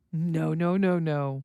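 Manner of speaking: "No, no, no, no" run together on one level tune; string "No, no, no, no" into one continuous warning. Shown as a demonstration. Parent talking to children, "no, no, no, no" run together. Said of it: "Listen to the different ways".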